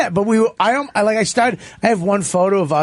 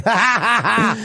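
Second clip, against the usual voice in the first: higher-pitched imitation of a few people laughing; mock crowd laugh; 6 semitones higher than usual. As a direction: mimic a sparse audience going ha-ha. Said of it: "fucking eight people going".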